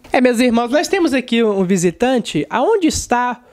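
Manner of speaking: solemn preacher reading a name he can't make out; pastor's pulpit announcement, drawn out slow; pastor announcing. Retold or imitated. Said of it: "o pastor fazendo a apresentação".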